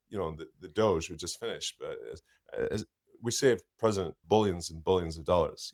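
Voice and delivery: halting stammering tech boss voice; Elon Musk. Acted. Impressionist answering the host as the tech boss. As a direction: lots of hesitant yeahs and ums. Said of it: "do you do Elon?".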